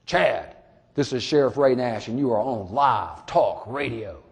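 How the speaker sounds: a lightly put-on radio host voice, unhurried on the last line. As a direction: play it like a mild radio announcer. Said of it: "in my best possible radio voice that I can muster".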